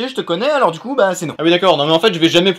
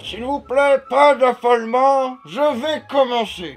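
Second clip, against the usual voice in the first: put-on slow, drawn-out old man's voice; grand old headmaster; 3 semitones higher, slower than usual. Old headmaster calms the card players, grandly slow. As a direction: stretch every phrase with solemn ceremony.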